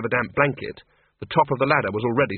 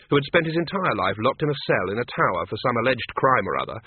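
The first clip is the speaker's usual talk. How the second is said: ordinary delivery, nothing marked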